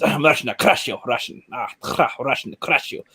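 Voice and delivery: rehearsing a mock Russian accent; attempted Russian accent. Shown as a demonstration. Saying the words to find it, attempted Russian accent. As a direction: feel out the Russian accent word by word. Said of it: "get the Russian accent here".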